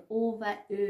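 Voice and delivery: او و او said as "oh" and then "ö"; first او a back o, second a rounded front ö; o versus ö. Shown as a demonstration. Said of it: "تفاوت این دو تا حرف رو".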